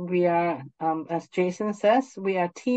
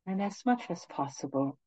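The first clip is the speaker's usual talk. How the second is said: guided meditation; 4 dB quieter than usual. Acted. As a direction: ease them gently into stillness.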